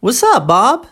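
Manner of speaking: "What's up, Bob" high on "up", dipping and rising on "Bob"; repeat-after-me model. Shown as a demonstration. Teacher saying it for the student to repeat, rising intonation. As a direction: model "What's up, Bob" with a clear final lift. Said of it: "vamos repetir".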